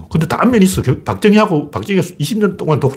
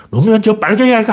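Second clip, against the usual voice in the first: Gyeongsang dialect shout; 7 semitones higher than usual. Retold or imitated. Mimicking street passersby in Gyeongsang dialect, mock angry shout. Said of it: "길거리 걸어가는 사람들이 막".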